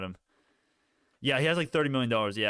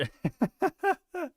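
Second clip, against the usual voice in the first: laugh. Real, not acted. Laughs at streamer's name.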